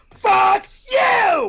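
furious shout. Acted. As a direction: yell it in rage. Furious quarrel over snowboard.

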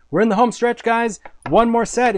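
rally everyone for the final push; rallying cheer. Real, not acted. Rallying viewers near show end.

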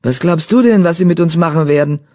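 understated grumble; muttering. Acted. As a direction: mutter back with mild scorn. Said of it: "murmelte der Einzelläufer".

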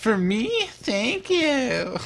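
very high, hammed-up girly voice. Shown as a demonstration.

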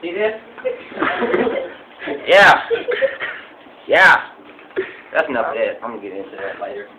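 rambling backwoods trophy-room tour guide; lightly voiced country hunter; hillbilly hunter character. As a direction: play a proud, dim redneck hunter showing off.

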